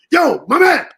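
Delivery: loud, high greeting called out; mock-yell a hearty greeting across the club; imitating a yell. X spots him in the club and yells a greeting. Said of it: "He started yelling".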